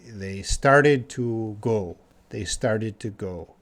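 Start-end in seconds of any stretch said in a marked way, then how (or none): 0.1-2.0 slow explaining. Shown as a demonstration. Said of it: "Just means they".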